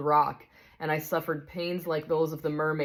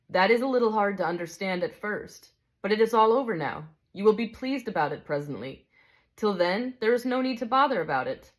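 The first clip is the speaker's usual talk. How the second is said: a touch higher, calm and kindly; gentle bright spirit; 4 semitones higher than usual. Acted. Bright spirit calmly answers the big ghost, kindly.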